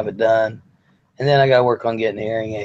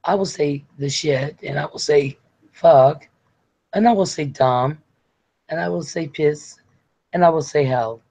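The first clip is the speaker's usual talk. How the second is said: prim, measured imitation, each swear word set apart; Sarah; 3 semitones higher than usual. Sarah agreeing to swear for Les, mock-prim. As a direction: imitate a woman too polite to swear. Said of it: "She'd be like".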